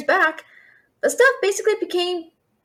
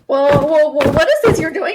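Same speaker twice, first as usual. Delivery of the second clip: startled whoa; 4 dB louder than usual. Acted. Dragon suddenly moves.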